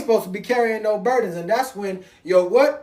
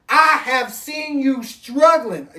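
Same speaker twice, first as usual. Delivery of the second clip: voice of God; 4 semitones higher, much slower than usual. Acted. Preacher voicing God to the congregation, slow and solemn. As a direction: lay it down slowly like God talking to his child. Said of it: "Because he says".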